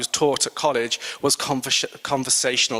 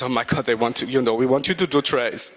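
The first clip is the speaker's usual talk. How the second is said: bad Swedish accent; 3 semitones lower than usual. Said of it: "I can't do a Swedish accent".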